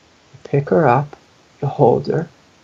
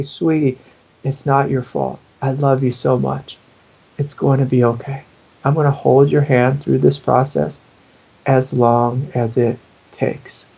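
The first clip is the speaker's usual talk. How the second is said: tender reassurance. Acted. Adult holds the inner child, tender reassurance. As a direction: comfort a hurt child, slowing at the end. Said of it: "hold that child and say".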